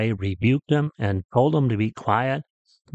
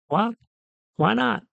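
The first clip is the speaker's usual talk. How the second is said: high-pitched, puzzled reaction; taken aback, voice jumping up; surprised husband; 11 semitones higher than usual. Acted. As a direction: ask it in startled disbelief, pitched well up. Husband reacts to wife's refusal.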